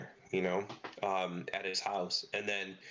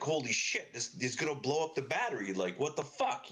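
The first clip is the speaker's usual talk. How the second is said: retold freak-out; 5 semitones higher than usual. Retold panic at overcharging battery.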